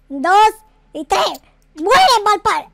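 slow count building into a shout; a furious war cry; battle yell. Acted. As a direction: drag out the count, then yell as you shoot. Shooting on the count.

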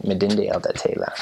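Twi-style Elda Taylor, er said as a flat uh; Ghanaian accent. Shown as a demonstration. Missionary teaching his Twi name, Ghanaian accent. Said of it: "you have to say it sort of in their accent".

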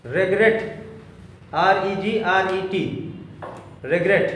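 letter by letter, dictating pace; slow dictation. Shown as a demonstration. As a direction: spell each letter slowly for students. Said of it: "regret लिखो". (धीरे धीरे अक्षर बोलते हुए)

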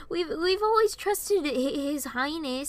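high, stammering insistence; scornful correction. A narrator's reading. Varian snorts and defends the king, scornful.

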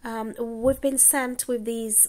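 put-on gently pleading like an errand boy; young boy. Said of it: "The boy said".

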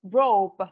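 "Rope" ending on a firm p; final p sound. Shown as a demonstration. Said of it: "Người ta đọc là rope".

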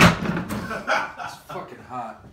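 slow, loud, laughing through the burn; strained by the heat. Real, not acted. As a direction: choke it out with a mouth on fire. After eating the hot pepper.

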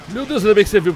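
high startled gasp, loud; alarmed gasp. Real, not acted. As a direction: gasp and panic. Police coming, alarmed. (susto alto)

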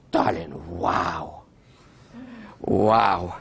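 slow, low, hushed mock awe; awed Stalin. Guide imitates Stalin staring at his huge signature, hushed slow awe. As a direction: drag out the wow like Stalin gaping at his own signature.

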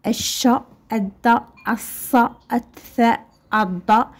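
الش, الد, الص with doubled first consonant; silent lam. Shown as a demonstration. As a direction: drill each from الش to الضاء without the L. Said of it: "راه ما كتنطقش".

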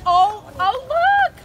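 excited call. Real, not acted. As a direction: point it out eagerly. Mom spots the dog.

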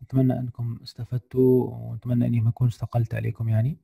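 normal talking voice

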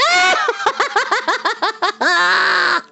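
high triumphant evil cackle; villain laugh. Acted. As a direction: cackle with crown on brow.

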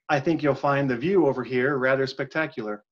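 flat line reading with no inflection; even, uninflected quote; monotone read. Shown as a demonstration. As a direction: read it deadpan so nobody can tell who said it. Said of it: "I'm not gonna read it any kind of inflection".

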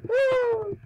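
loud high woo; cheering. Real, not acted. Girl cheering teammate's dance, loud high woo. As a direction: cheer her on.

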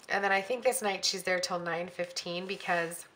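throat catching, about to cough; choking. Real, not acted. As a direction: talk with something caught in throat. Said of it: "I'm, like, choking".

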